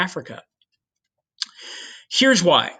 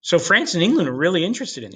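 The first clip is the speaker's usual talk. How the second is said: high surprised huh, then fast; mock surprise; 3 semitones higher, faster than usual. Spanish monarchs hearing the rivals are interested, mock surprise. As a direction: caught off guard, suddenly interested. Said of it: "they go".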